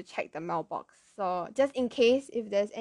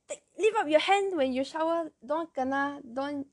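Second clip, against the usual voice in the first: grandmother's instruction; 5 semitones higher than usual. Retold or imitated. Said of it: "Ah, she said".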